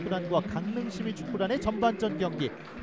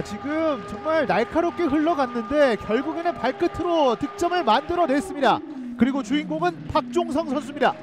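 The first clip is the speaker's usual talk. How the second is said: excited commentary; 5 semitones higher, 3 dB louder than usual. Real, not acted. Post-goal excitement.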